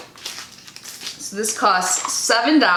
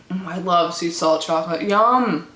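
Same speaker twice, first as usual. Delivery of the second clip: mouth full; 5 semitones lower than usual. Real, not acted. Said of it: "Sorry, I'm talking with my mouth full".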